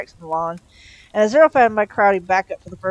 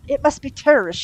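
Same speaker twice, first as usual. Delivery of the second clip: loud, pitched-up sharp remark; brisk snap; 8 semitones higher, 5 dB louder than usual. A narrator's reading. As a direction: snap it out, voice raised. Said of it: "she snapped".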